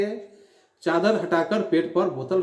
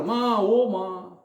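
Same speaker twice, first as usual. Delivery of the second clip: groaning; 3 semitones higher, much slower than usual. Retold or imitated. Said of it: "जोर से कराकर".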